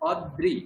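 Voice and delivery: "অদ্রি" as od-dri, d held; separated ri. Shown as a demonstration. Teacher breaks down the rophola word, syllables split. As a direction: close the first syllable of "অদ্রি" on d, then dri. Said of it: "এখানে আমি রি আলাদা করে বললাম".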